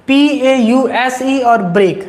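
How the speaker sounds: slow, spaced-out dictation. Shown as a demonstration. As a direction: dictate so students can write it down. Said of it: "note कर सकते हो". (नोट कराने के लिए धीमे-धीमे बोलना)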